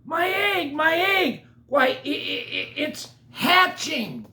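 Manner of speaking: high, loud, stammering joy; so thrilled he can't get it out; high, excited stutter; stammering excitement. Acted. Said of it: "shouted Horton".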